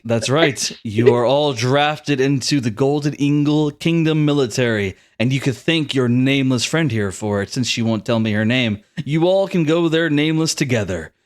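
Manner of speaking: smug, composed pronouncement; lightly voiced royal smugness; smirking prince. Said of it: "Damien says with a smirk".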